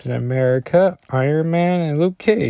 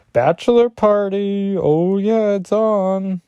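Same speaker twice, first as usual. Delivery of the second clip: excited bachelor cheer; 9 semitones higher, 3 dB louder, slower than usual. Retold or imitated. Luke Cage voiced, excited.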